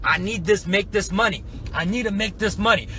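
acted-out urgency; urgent self-talk. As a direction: push it out like a determined thought. Acts out determined thought under pressure.

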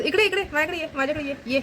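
high, quick-repeated coaxing call; coaxing a pet. Real, not acted. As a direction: coax a little pet over in a high voice. Calling the pet over to her. (लाडाने उंच आवाजात जवळ बोलावणे)

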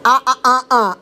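lips apart, only ah sounds; lips not touching. Shown as a demonstration. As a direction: say it without closing the lips. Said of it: "Say Coca-Cola without your lips touching".

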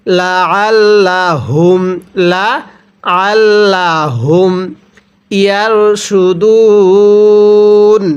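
drawn-out tajweed chant with a lengthened ending; slow Quran recitation. Shown as a demonstration. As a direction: recite slowly, stretching the final word. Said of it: "পড়ুন আমার সাথে".

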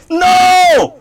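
high shrieking no; terrified scream. Real, not acted. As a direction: scream it in panic. Panicked scream at the monster.

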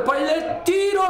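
rising shout at the shot; excited shout. Real, not acted. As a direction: call the shot at full voice. Shot on goal, rising commentary.

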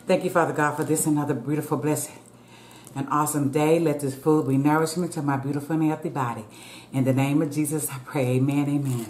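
bow your head and pray gently over the food. Real, not acted. Says grace before eating.

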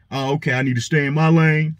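mock a man trying to laugh it off; embarrassed half-giggle. Imitating Russell laughing off public embarrassment, sheepish. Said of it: "kinda giggling and he says".

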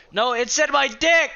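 very high, loud disbelieving shriek; shocked shriek. Real, not acted. Gamer reading a rude game message, shocked shriek. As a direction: shriek in laughing outrage.

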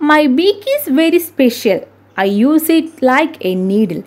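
slow, measured verse recitation; riddle reading. Acted. Teacher reads a bird riddle to pupils, slow recitation. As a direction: read each line deliberately, with swinging intonation.

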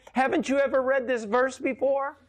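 high, incredulous; as if it's brand new to him; astonished. Retold or imitated. Man's astonished question to preacher.

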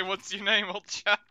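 hammed-up posh catchphrase; posh gent voice. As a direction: ask it like an old toff. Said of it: "I didn't say".

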